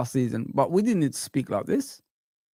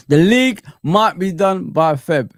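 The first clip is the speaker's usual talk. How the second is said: slow, louder mimic of the rival; mocking repeat; 6 dB louder, slower than usual. YouTuber mimicking the Arsenal fan's claim, slow and mocking. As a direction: parrot his boast back with scorn. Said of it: "There you go, people".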